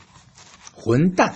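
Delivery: "混蛋" drawn out slowly with a hard falling fourth tone; fourth tone demo. Shown as a demonstration. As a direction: say "混蛋" slowly, dropping sharply at the end. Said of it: "it becomes fourth tone".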